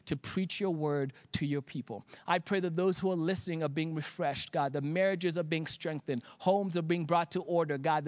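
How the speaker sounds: quick, even pastoral prayer. Real, not acted. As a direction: pray earnestly in a steady running stream. Leads a prayer.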